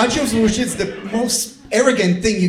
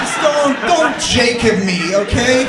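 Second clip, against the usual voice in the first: half-joking shout of protest; mock-angry yell at the German; mock outrage; 3 semitones higher than usual. Comic telling off a German audience member, half-shouted.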